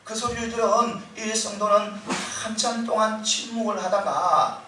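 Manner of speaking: usual speaking voice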